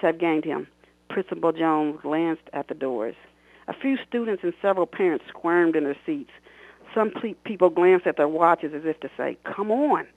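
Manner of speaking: expressive read-aloud of her own novel; story narration. A narrator's reading. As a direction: read it like an audiobook, voicing the characters. Author reads novel excerpt aloud.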